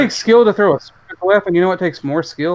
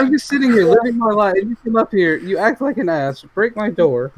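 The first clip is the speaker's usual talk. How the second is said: mock homeowner rant; 5 semitones higher than usual.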